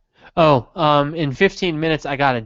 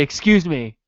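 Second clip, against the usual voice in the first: mock-serious customer; a touch of put-on seriousness, asking a store clerk; 2 semitones higher, 3 dB louder than usual. Customer asking in a store, mock serious. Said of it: "when I need someone to take me seriously".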